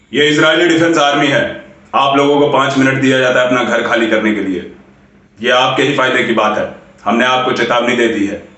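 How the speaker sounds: lightly voiced military officer on the phone; army caller. Army caller warning a family to leave their home, formally voiced. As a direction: deliver an official warning, steady and even. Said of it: "ये कह के उन्होंने phone काट दिया".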